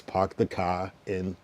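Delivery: each word drawn out slowly; slow quiz prompt. Shown as a demonstration. Streamer quizzing a caller, slow prompt. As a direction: spell out the quiz line slowly. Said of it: "how to complete the sentence".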